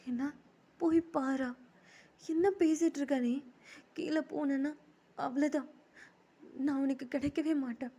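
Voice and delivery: high, loud acted indignation; upset protest. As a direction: protest in alarm to a boyfriend. Upset protest to boyfriend on phone.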